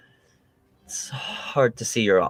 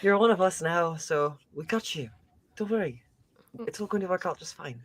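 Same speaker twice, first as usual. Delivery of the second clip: soft, higher in-character comfort; Duke's reassuring voice; 5 semitones higher, 7 dB quieter than usual. Acted. Duke telling Callie she is one of them, softly reassuring. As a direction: settle a friend's worries gently. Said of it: "then Duke would say something like".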